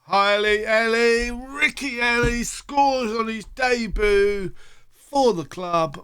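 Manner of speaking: high, excited goal call; thrilled at the debut goal; goal commentary. Real, not acted.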